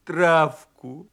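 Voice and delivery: slow, loud wolfish plea; drawn-out beast pleading; pleading protest. Acted. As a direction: insist on it, stretching the words. Donkey pleads in wolf voice.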